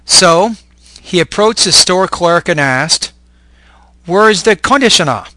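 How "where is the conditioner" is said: "conditioner" stressed on its first syllable, CON, with a full vowel; misplaced word stress. Acted. Learner asks store clerk for an item, "conditioner" mis-stressed on CON. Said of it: "he had not stressed the correct syllable".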